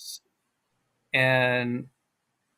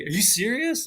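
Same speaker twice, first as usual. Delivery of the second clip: "Are you serious" with sounds dropped, high, rising at the end; native intonation; 7 semitones higher than usual. Shown as a demonstration. Showing native deletions to the listener, "Are you serious" high and fluid. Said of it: "your intonation is like a native speaker".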